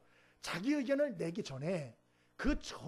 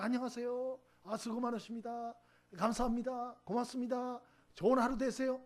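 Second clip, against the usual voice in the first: cheerful greeting; 4 semitones higher than usual. Shown as a demonstration. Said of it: "저는".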